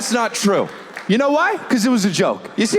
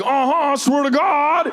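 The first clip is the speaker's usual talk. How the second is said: doubling down; 8 semitones higher than usual. Retold or imitated. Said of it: "double up and be like".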